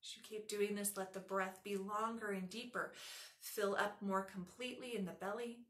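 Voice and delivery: soft, even meditation voice; hushed, calm breathing cues; guided breathing meditation. Real, not acted. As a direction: guide the breath softly, with long pauses.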